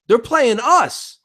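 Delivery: high, slow knowing drawl; smug friend. Retold or imitated. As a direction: spell it out slowly. Friend explains calmly, amused.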